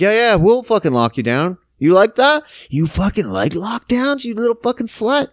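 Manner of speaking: put-on lewd taunt; mock dirty talk. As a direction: play a leering bully talking dirty. Parties acted as taunting dirty talkers.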